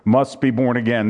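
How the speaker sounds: must set apart with a little added weight; stress on must. Shown as a demonstration. Preacher telling his congregation a sinner must be reborn, stress on must. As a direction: lean on must as the key word. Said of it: "emphasis on that word".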